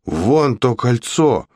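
slow, high startled gasp; gasping surprise. Acted. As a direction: gasp at the ring. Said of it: "ахнула Алекс".

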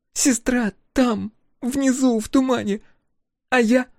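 she barely holds it together; grieving young woman. A narrator's reading. Thea grieving her sister.

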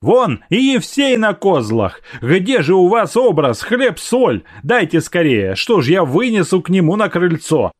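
high, hurried fussing; fussy excitement. A narrator's reading. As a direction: guest scolding the household in a high hurried fuss. Guest fussing over bread and salt.

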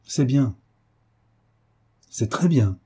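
gentle, measured praise from a teacher; douceur. A narrator's reading. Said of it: "dit-elle doucement". (compliment doux et posé)

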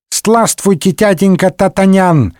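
put-on high, lightly lisped toddler babble; small boy greeting Д'Артаньян, babbling happily. A narrator's reading. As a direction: babble it like a tiny child. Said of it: "залепетал он".

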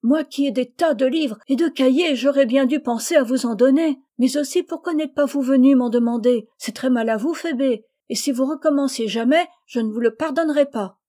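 plus aigu et plus fort, gronderie affectueuse; mock scolding. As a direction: gronder pour rire. Rose scolds Phébé fondly. (une petite gronderie plus haute et plus forte)

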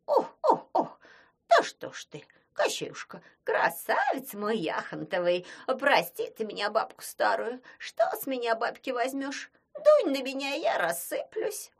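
high, loud fawning wail; frightened pleading. Acted. Frightened Baba Yaga begs Koschei's forgiveness. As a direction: grovel before the angry sorcerer. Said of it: "Баба-Яга испугалась".

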